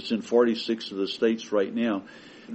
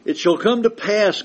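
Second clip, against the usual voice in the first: loud, solemn voice of God, building to a higher, louder pitch on terror; scripture read as God; 11 semitones higher, 6 dB louder than usual. Acted. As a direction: thunder God's warning from Leviticus. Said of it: "God says".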